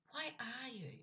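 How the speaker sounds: "you" stressed as the focus; emphasis on "you". Shown as a demonstration. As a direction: point the question at "you". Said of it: "placed the emphasis on you".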